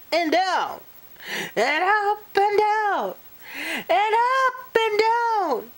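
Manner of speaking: rising excitement. A narrator's reading. Jigging line, building up.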